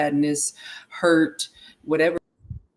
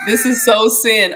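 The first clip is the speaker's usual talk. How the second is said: louder, higher insistent repeat; emphatic louder repeat; emphatic exclaim; 6 semitones higher, 8 dB louder than usual. Real, not acted. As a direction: press the point home, raised. Repeats her remark louder.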